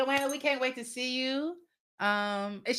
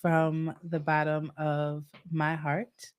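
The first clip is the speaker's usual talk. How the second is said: sincere; 5 semitones lower, much slower than usual. Real, not acted. Closing heartfelt thanks.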